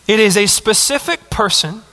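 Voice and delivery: deliberate weight on the word "person"; stress on PERSON. Real, not acted. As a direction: set "person" apart with emphasis. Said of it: "emphasis on the word person".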